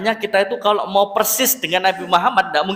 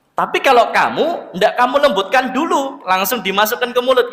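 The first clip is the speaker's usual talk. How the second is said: put-on higher, suspicious old beggar pressing the stranger; beggar's voice; 4 semitones higher than usual. Blind beggar tells Abu Bakar he is a different man, in a higher questioning voice. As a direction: pitch it up as the blind beggar who senses something is off.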